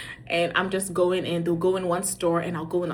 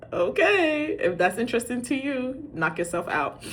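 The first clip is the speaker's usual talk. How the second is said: high drawn-out okay, settling back down; dismissive okay; 5 semitones higher than usual. Retold or imitated. Mom reacting to kids' aimless mall walk, dismissive. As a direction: humor them with a dubious singsong okay.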